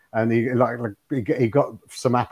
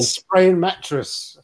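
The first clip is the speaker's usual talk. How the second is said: slow, amused, giggling delivery of the misheard phrase; laughing misquote; 5 semitones higher, 3 dB louder, much slower than usual. Retold or imitated. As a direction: laugh it out slowly. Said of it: "that's what I said, spraying mattress".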